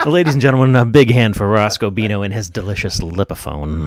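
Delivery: announcer intro. Acted. Host introducing an open mic act.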